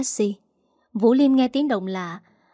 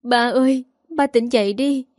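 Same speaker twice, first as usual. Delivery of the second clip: wailing; 4 semitones higher than usual. Acted. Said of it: "cô gào khóc".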